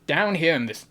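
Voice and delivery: tentative southern accent attempt. Shown as a demonstration. Streamer proving an accent to chat, tentative southern accent. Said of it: "I can do a good southern accent".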